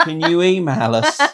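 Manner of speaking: slow, laughing copy of her appeal; mock appeal. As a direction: repeat her plea with a chuckle.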